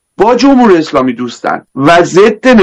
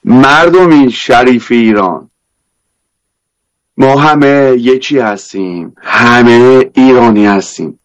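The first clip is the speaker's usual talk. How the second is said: Isfahani accent; 5 semitones lower than usual. Shown as a demonstration. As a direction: lay on a thick Isfahani accent.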